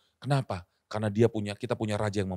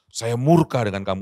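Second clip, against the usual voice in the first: louder, stressed murka; 6 dB louder than usual. Shown as a demonstration. Preacher contrasts marah and murka, stressing murka. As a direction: say "murka" with more weight and force. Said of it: "itu lebih daripada marah".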